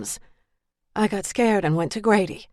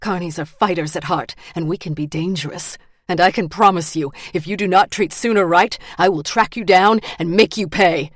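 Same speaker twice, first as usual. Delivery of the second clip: determined threat; 4 dB louder than usual. Acted. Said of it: "her voice low and determined".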